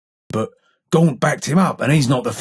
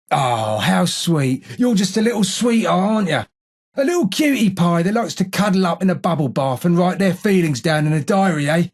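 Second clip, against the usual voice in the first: sarcastic cooing, pitched up; mocking; 3 semitones higher than usual. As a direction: coo with mock sweetness. Gruff character mocks the newcomer.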